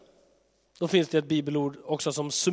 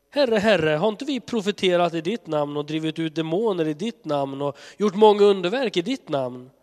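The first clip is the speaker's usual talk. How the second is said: pleading cry; 3 semitones higher, 5 dB louder than usual. Acted. False prophets pleading with Jesus.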